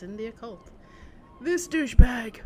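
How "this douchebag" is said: loud, slow indignant shout; angry outburst. Real, not acted. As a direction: blurt it out in disgust. Annoyed at game character.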